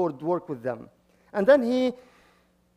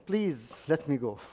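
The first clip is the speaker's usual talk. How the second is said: pleading; 5 semitones lower, 7 dB quieter than usual. Retold or imitated. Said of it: "And he's pleading God again".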